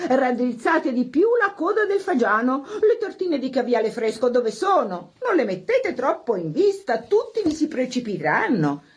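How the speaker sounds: mild hostess voice, bossy and fussy; nagging hostess. Acted. Hostess nagging the servants over the buffet, mildly bossy. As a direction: fuss over the buffet, barking orders lightly. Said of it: "rimbrottando i servitori".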